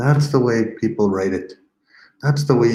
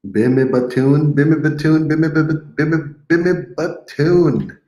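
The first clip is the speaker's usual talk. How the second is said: higher, livelier sing-song Be me batun; playful repeat; 6 semitones higher than usual. Shown as a demonstration. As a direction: bounce the phrase for the kids. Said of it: "teacher playful repeat".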